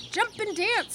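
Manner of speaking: high crowing call; rooster calling. A narrator's reading. Rooster urging Wilbur to dance, high. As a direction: crow it out brightly. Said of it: "said the rooster".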